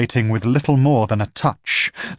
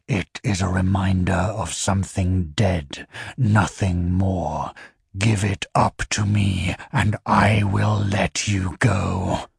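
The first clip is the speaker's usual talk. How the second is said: low, measured voice of an alien being; low infernal voice; 3 semitones lower than usual. Acted. The infernal questioning the Empire's envoys, low and measured. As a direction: speak down low like something not human. Infernal menaces Vesper up close.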